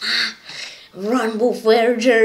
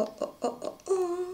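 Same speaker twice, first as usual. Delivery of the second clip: breathy pained hisses; hissing in pain; 7 semitones higher, 9 dB quieter, faster than usual. Real, not acted. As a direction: suck air through teeth in pain. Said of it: "That hurts!".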